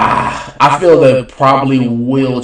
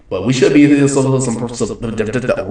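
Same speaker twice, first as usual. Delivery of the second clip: trips over the word some, slowing down; stumbling take. Real, not acted. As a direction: get stuck repeating some.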